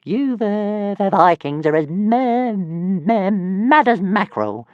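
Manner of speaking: high, stammering dragon voice with a chuckle; chuckling little dragon. Acted. Tiny dragon chuckling at the Vikings, high and stammering. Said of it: "Toothless chuckled".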